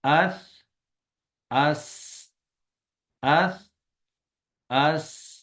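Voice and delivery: اس ending in a stopped sound; اس read with a silent final letter; sakin letter. Shown as a demonstration. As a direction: cut اس off on the consonant. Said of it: "ساکن کر کے ہوگا".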